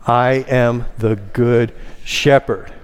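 slow phrase, weight landing on "shepherd"; stress on SHEPHERD. Shown as a demonstration. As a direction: save the emphasis for the last word, "shepherd". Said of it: "and the fifth".

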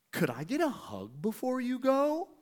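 high, rising put-on plea; shy request. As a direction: imitate a big guy shyly asking for affection. Big dude retold, shyly asking.

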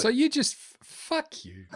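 breaks into laughter mid-curse; a mock insult dissolving into giggles; laughing. Real, not acted. Co-host teased about a show, laughing it off.

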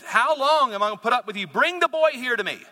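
complain, then order with irritation; aggravated. Acted. Jesus demanding the boy be brought, aggravated. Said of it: "he was aggravated here".

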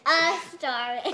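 faint attempt at Irish accent; half-hearted Irish accent, cut off. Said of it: "Can you do an Irish accent?".

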